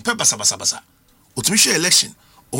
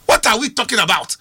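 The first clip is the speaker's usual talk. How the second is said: louder, pressing the question; exasperated louder repeat; 4 dB louder than usual. Real, not acted. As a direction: push it harder the second time. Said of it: "repeated question louder".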